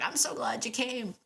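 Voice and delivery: lightly voiced happy dog; imitating a proud, eager dog; excited dog. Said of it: "So he was like".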